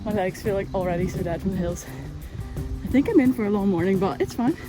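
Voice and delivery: walking uphill while talking. Real, not acted. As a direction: talk on the move, a bit breathless. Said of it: "I'm gonna have to walk while I talk".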